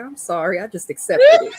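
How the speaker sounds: laughing through a sheepish sorry; laughing apology. Retold or imitated. Caught laughing while telling her uncle sorry. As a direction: giggle out the apology, high and loud. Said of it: "I was like".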